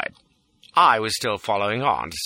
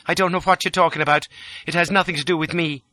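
higher-pitched, cool woman's denial; cold; 8 semitones higher, faster than usual. A narrator's reading. Lola denying any part to the fugitive, cold. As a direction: disown the whole affair coldly. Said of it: "sitting there cold and beautiful".

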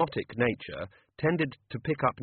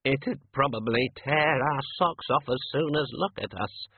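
wailing; 3 semitones higher, slower than usual. Acted. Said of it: "wailed the senior wrangler".

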